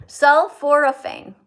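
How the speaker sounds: Sulforaphane said slowly and loudly, syllable by syllable; slow careful pronunciation. Shown as a demonstration. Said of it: "Four syllables".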